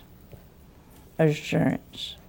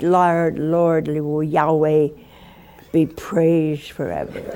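Elizabeth relieved; 5 semitones lower, slower than usual. Retold or imitated. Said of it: "I bet you said".

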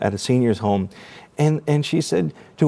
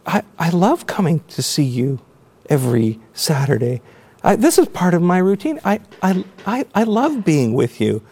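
higher-pitched, emotional retelling of a daughter's words; choked up; 5 semitones higher than usual. Real, not acted. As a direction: voice lifted, choked with real feeling. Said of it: "I get a little choked up".

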